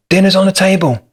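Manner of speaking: put-on calling a child down for dinner; calling upstairs. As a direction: call it up the stairs to a child. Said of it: "you shout upstairs to your child".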